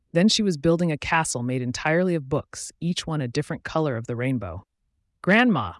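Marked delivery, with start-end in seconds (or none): 5.2-5.7 sharp gasp of wonder. A narrator's reading. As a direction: gasp out the name, amazed. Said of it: "Eve gasped".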